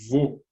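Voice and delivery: "Vô" with a rounded closed oh; teacher demonstrating closed-O "Vô". Shown as a demonstration. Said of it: "indicar um O fechado".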